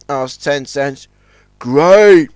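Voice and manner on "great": smiling. A narrator's reading. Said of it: "smiled Warrior".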